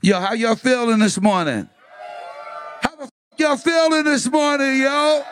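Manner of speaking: shouted greeting to a crowd; hype man shout. Real, not acted.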